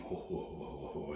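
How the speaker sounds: imitating a hearty ho-ho laugh, lightly; a hint of a hearty belly laugh; mock big laugh. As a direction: retell his laugh with a light ho-ho. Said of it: "this big, deep".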